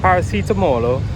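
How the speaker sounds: Paracetamolo said in careful Italian, every syllable sounded out, high and loud; rehearsed Italian word. Shown as a demonstration. Tourist trying out the Italian word he rehearsed for the pharmacy, said high and loud. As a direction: proudly pronounce Paracetamolo the Italian way, stress on the mo. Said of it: "learnt the fucking Italian for paracetamol".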